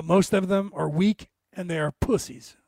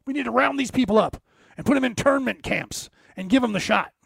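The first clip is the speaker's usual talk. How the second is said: higher, mocking voice of a zealous liberal; higher sneering impression of liberals demanding the shot; 5 semitones higher than usual. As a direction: parrot the demand in a higher put-on voice. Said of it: "you same people are going".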